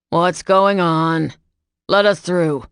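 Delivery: commanding call. A narrator's reading. Dad calling through the crowd, loud commanding call. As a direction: push through with your voice.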